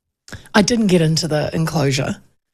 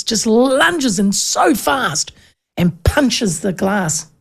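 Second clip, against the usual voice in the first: slowed; much slower than usual. Retold or imitated. Retelling punch, slowed for drama.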